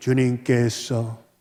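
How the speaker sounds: very low, hushed, soft, slow, unhurried murmur. Showing a put-on spiritual way of talking, in a low, soft, slow tone. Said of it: "말투를 좀 이렇게 톤을 낮춰가지고 조곤조곤 천천히".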